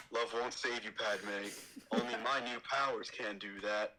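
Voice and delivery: a hint of a brooding Anakin; lightly voiced young Jedi, reassuring. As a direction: Anakin in near-normal voice. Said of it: "my Anakin is pretty sick".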